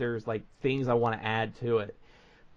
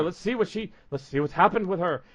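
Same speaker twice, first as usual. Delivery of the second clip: hammed-up doctor; 4 semitones higher, 4 dB louder than usual. Doctor character voiced in role-play.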